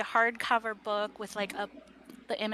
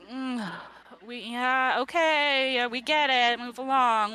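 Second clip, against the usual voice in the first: mildly impatient drone, brushing the speech off; lightly acted heard-it-all-before boredom; weary, bored listeners. Council members who have heard this before, wearily dismissive. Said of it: "like, they've heard this before".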